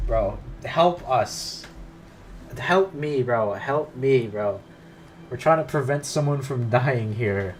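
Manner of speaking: slow, loud begging; desperate plea. Real, not acted. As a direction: beg her for help. Begs Monika to help.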